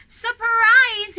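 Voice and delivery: loud high burst of surprise; shouted. A narrator's reading. Snowman bursting from a cake, shouting. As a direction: jump out yelling it. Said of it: "he shouted".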